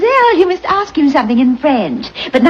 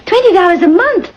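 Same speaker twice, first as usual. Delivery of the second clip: louder, higher and indignant; shocked; 6 semitones higher, 3 dB louder than usual. Acted. The mistress is shocked at the maid's twenty-dollar wage and protests. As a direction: balk at the price.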